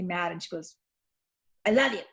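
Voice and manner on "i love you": snotty retort. Retold or imitated. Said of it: "and snots off".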